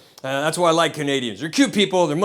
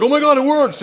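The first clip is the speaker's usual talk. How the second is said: high, loud mock astonishment; hammed-up excited exclamation; amazed; 9 semitones higher, 5 dB louder than usual. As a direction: act out friends marvelling at a magic trick. Acts friends amazed at the balloon trick.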